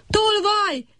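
high cry of alarm, sharp and sudden; shout. A narrator's reading. Little cricket crying out at the thief in his dream, high shout. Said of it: "kiáltotta a kis tücsök".

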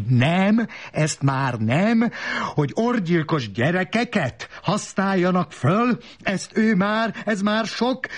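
high-pitched outburst without added volume; shrieked protest. A narrator's reading. Woman suddenly protesting about child assassins, high-pitched shrieking. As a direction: climb into a frantic high cry. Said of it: "magyarul kezdett kiabálni".

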